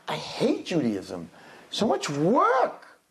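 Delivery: put-on whiny kid. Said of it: "walk around and like".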